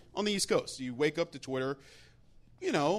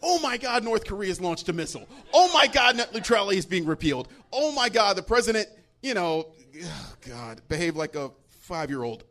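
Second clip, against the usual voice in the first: panicked alerts; 5 dB louder than usual. Retold or imitated. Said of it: "legions of alerts".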